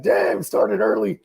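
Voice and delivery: mock amazement. Liquor store dude tripping off him, drawn-out amazement. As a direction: stretch it out, impressed and teasing. Store clerk reacting to early purchase.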